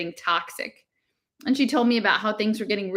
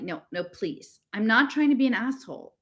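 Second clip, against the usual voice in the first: gentle; 3 semitones higher than usual. Acted. Girl softens the argument with her friend, really gently. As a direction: ease off and plead gently. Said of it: "really gently".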